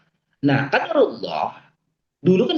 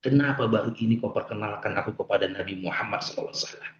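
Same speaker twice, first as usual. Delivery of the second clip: tearful prayer retold; 7 semitones lower than usual. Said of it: "Nangis aku sujud".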